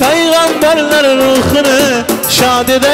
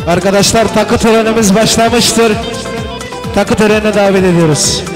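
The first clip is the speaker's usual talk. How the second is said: booming wedding announcer. Acted. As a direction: announce it to the hall. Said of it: "announcer opens gift ceremony".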